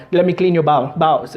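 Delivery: lightly imitated Indian dad; father repeating himself, Indian accent. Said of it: "who speak like that".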